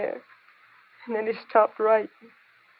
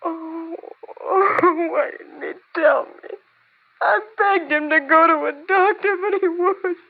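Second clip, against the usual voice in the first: tearful; 6 semitones higher than usual. Acted. Widow learns husband was addict.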